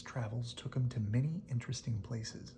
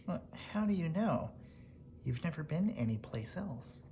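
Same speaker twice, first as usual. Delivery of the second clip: higher, lightly voiced bird; 5 semitones higher than usual. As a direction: let the bird tease the wolf. Bird replies to wolf.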